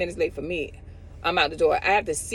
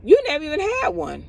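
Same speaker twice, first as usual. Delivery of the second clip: imitating the friend's reasoning; 6 semitones higher than usual. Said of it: "to know, like".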